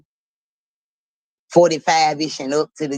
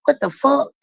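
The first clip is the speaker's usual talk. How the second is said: higher, retelling her own shock; shocked disbelief; 9 semitones higher than usual. Retold or imitated. Teller reacting to the bald little girl, retold shock. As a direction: blurt it out stunned.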